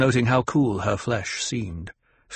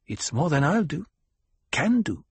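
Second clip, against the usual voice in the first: tribeswoman; 6 semitones higher than usual. A narrator's reading. Hera answers in character.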